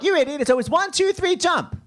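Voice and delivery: mock impatient call to jump; retold exasperated countdown. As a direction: snap the insult, then count up high. Retold preview countdown, same bit.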